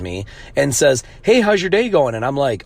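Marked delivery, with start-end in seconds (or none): 1.2-2.1 fake-friendly seller. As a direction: play the sugary opener of a pushy seller. Mimics pushy seller's opening message.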